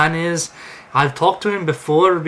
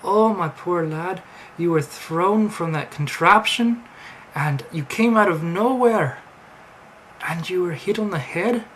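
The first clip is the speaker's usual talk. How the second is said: higher, sing-song mock Amish voice; terrible Amish accent; 5 semitones higher than usual. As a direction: lilt it like a badly faked Amish farmer. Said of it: "my terrible Amish accent".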